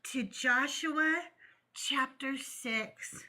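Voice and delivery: slow hushed preacher reading scripture; solemn Sunday school teacher, drawn out. Acted. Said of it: "I was using my Sunday school teacher voice".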